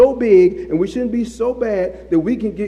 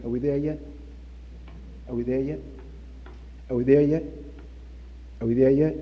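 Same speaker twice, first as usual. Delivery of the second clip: put-on whiny kids in back seat; 7 semitones lower, 7 dB quieter, faster than usual. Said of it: "That little bit that I did with you guys was annoying".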